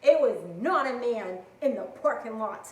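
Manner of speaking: loud, stunned yelling at a friend; disbelieving shout. Retold or imitated. Telling her coworker she must be lying, loud and stunned. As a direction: yell it like you can't believe her.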